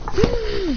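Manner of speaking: high, short hum; acted hum. Demon grabbing Kiba's face, humming. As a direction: hum it high through closed lips.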